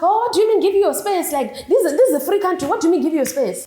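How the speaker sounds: imitated outraged protest; indignant. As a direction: act out his affronted pushback. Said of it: "he starts getting increasingly, increasingly mad".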